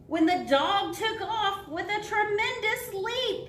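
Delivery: high, loud storytelling climax; excited narration. A narrator's reading. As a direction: build the thrill for young listeners. Story climax, the dog leaps.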